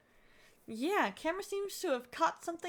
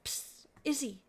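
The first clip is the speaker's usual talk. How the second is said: lightly voiced concerned friends; acted worried friends. Friend reassuring a husband whose wife vanished, gently.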